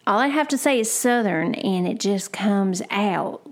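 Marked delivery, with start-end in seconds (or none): 0.9-1.5 Southern drawl. Shown as a demonstration. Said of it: "Oh, there it goes again".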